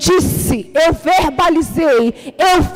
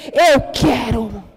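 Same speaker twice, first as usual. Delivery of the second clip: slow declaration; 5 semitones lower, much slower than usual. Shown as a demonstration. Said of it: "você dizer".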